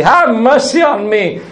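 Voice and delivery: mildly acted penitent plea to God; crying out for mercy. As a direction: plead like a sinner repenting, without shouting. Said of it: "cries out to God for mercy".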